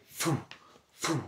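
short puffed whoosh; two quick "fwoo" sounds; whoosh imitation. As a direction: imitate poles whizzing past. Imitates poles whizzing past.

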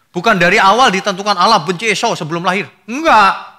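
loud, high refutation; forceful denial. Real, not acted. Preacher loudly rejecting a wrong teaching. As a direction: shoot the idea down hard.

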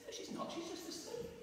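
high, hushed whisper; soft whisper. Acted. Jesus quietly telling the mourners she only sleeps, whispered. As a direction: breathe it out gently.

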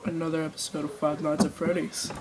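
low, soft deep-voiced intro; Markiplier. Boy corrects his YouTuber intro, deep voice. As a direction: deepen it, keep it soft. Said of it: "like, a really deep voice".

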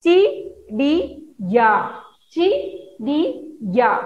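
each syllable said apart, with pauses. Shown as a demonstration. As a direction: read one syllable at a time, a pause after each. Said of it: "So now read complete full word". (हर अक्षर अलग-अलग रुककर पढ़ें)

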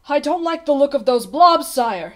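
uneasy warning. A narrator's reading. Page boy uneasily warns the king.

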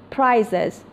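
پرایزز ending in a voiced "ez" syllable; ez plural ending. Shown as a demonstration. Teacher giving an example after z, پرایزز with clear "ez" ending.

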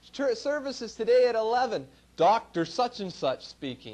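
loud, booming announcement of the sign; sign read aloud. Retold or imitated. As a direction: boom it out like a billboard. Reading out a flashy church sign.

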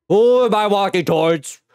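nervous chatter while walking toward a scary man; scared and loud. Real, not acted. Player approaching a creepy man in the game, scared and loud.

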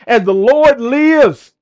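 slow, solemn king's decree; kingly pronouncement. Acted. King David passing sentence in a slow, solemn decree. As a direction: pronounce death like a furious king. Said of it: "He says".

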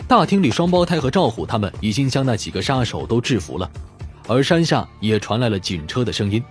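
ordinary delivery, nothing marked

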